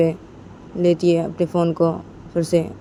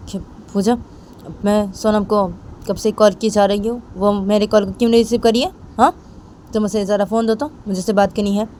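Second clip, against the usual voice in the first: a bit louder, lightly voiced insistent boss; demanding boss; 4 semitones higher, 3 dB louder than usual. Sonam demands that Pooja hand over the phone, a bit louder. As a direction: push impatiently for the phone.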